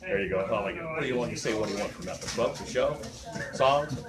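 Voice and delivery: normal talking voice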